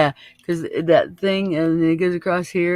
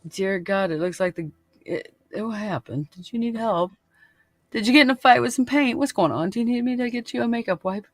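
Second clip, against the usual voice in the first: higher, fussing over a friend's face; mock sympathetic concern; 7 semitones higher than usual. Offering a makeup wipe with fake sweet concern. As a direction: feign gentle worry about the paint. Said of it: "That's my nice version of going".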